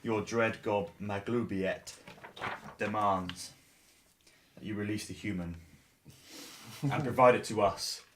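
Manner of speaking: understated godly command with long pauses; dread god decree. Acted. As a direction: pronounce it solemnly, pausing between phrases. Player speaks as dread god.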